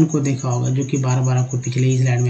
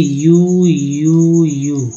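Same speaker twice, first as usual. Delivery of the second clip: emphatic call; 2 semitones higher, 6 dB louder, much slower than usual. Shown as a demonstration. Teacher calls out the next vowel loudly. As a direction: announce the letter यू loudly. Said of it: "अब देखिए".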